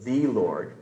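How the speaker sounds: "the" said as a full, distinct word before "Lord"; stress on "the". Shown as a demonstration. Teacher showing a congregation how to emphasize one word, stress on "the". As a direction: lean on "the" in "the Lord". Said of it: "You emphasize one word".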